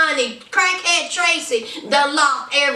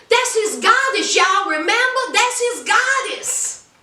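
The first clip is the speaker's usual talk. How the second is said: mocking goddess; 4 semitones higher than usual. Mocking his devotion.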